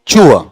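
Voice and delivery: चूआ with a sound halfway between ट and च. Shown as a demonstration. Teacher demonstrating the tourist sound to the class. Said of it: "ट और च के बीच का साउंड".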